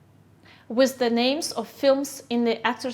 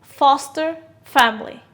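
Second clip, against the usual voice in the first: Foster family. with FOS louder; teacher showing the stress in Foster family; 4 dB louder than usual. Shown as a demonstration. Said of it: "Where's the stress?".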